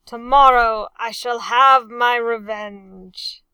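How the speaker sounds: loud, menacing growl. A narrator's reading. Captain growling to his men about revenge. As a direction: threaten it through a growl. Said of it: "the captain growled".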